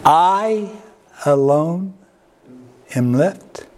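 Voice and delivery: a hint of a sulky complaint; self-pitying echo. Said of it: "Mike, what are you doing here?".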